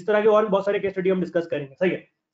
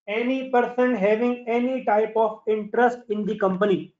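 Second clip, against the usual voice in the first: very slow, word by word; slow dictation; 3 semitones higher, much slower than usual. Shown as a demonstration. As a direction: dictate the definition slowly. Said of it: "definition dictated to class".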